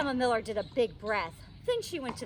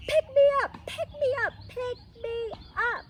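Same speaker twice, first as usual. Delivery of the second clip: put-on much higher, loud pleading little girl; high insistent child's plea, slowing at the end; eager begging; 13 semitones higher, 6 dB louder than usual. A narrator's reading. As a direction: beg to be picked up, bouncing.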